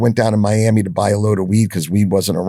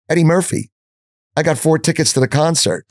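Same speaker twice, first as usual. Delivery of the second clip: excited retold announcement; 8 semitones higher than usual. Nathan announces concert tickets excitedly.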